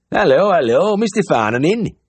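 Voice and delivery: cheery high farmer's voice; bright, keen country caller; eager Yorkshire farmer. A narrator's reading. Farmer at the door, cheerfully asking for the vet. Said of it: "round, eager face".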